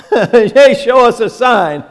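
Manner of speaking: hammed-up taunt from the Pharisees; mocking Pharisees. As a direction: mimic their cheeky challenge.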